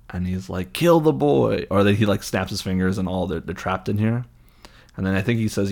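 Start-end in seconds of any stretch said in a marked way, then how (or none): 0.7-1.7 high, loud theatrical command; hammed-up evil cry; villain's kill order. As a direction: order it like a dark lord.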